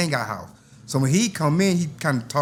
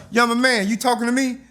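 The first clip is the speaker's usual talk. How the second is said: menacing; 9 semitones higher, 3 dB louder than usual. Retold or imitated. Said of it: "he said".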